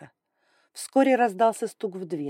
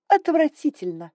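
higher, louder disgusted repeat; displeased; 9 semitones higher, 6 dB louder than usual. Acted. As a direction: say it again with distaste. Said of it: "снова повторила недовольно".

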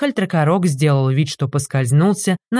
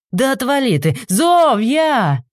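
shouting; 8 semitones higher, slower than usual. A narrator's reading. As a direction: shove him off and yell for your wife. Innkeeper shouting while fighting. (трактирщик кричит, отбиваясь)

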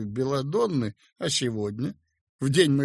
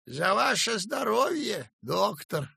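raised, feeling toast to the doctor; heartfelt toast; 7 semitones higher than usual. A narrator's reading. Feldsher toasts the young doctor, heartfelt. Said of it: "прочувственно сказал Демьян Лукич".

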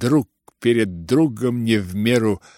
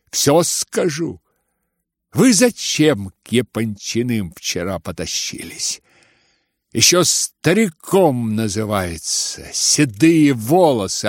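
scornful taunt; 4 semitones higher than usual. Acted. Ganya mocks his father.

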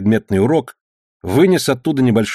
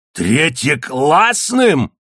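slow, drawn-out howl, higher; 5 semitones higher, much slower than usual. A narrator's reading. Cook howling back at the third-rate insult, slow and high. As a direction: wail the insult back slowly. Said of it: "взвыл Железный Кулак".

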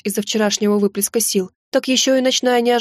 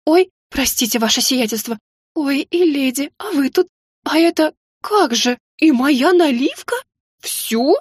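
higher, fussing cook's voice; flustered old cook; 4 semitones higher than usual. A narrator's reading. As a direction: play the cook catching them at her liqueur.

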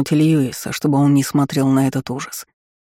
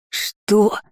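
mild, higher-pitched squealed question; 6 semitones higher than usual. A narrator's reading. Shopkeeper hearing his finger is forfeit, squealing. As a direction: squeal it in alarm, with some restraint. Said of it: "завизжал резанный свиньёй лавочник".

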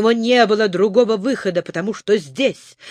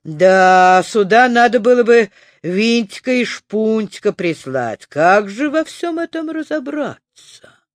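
amazed; 2 semitones higher than usual. Acted. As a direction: gasp in amazement. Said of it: "ошеломлённо присвистнул". (ошеломлённо, с изумлением)

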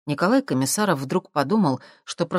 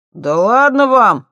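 loud, high, drawn-out brush-off; dismissive; 8 semitones higher, 10 dB louder, slower than usual. A narrator's reading. Thief brushing off the professor, loud and cocky. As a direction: wave them off lazily. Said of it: "отмахнулся Шпатель".

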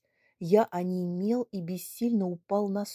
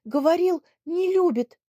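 put-on high, loud sobbing girl; tearful complaint; 10 semitones higher, 7 dB louder than usual. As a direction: wail through tears. (всхлипывая, жалуясь)

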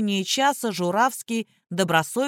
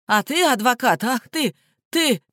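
higher, choking fury; splutter, lost for words; sputtering rage; 4 semitones higher than usual. A narrator's reading. Prisoner choking on rage at the lawyer.

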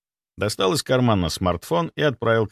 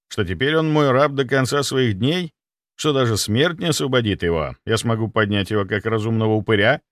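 usual speaking voice

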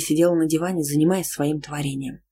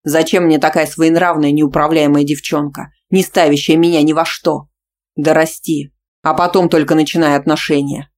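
loud scornful rant; furious; 6 dB louder than usual. Acted. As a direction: berate her. Boyfriend rages on.

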